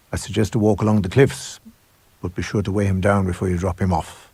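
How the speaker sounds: a hint of the cold headmaster, calmly ordering. Headmaster ordering Hyde to dispose of the body, coldly calm. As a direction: dispose of the boy as if ordering tea.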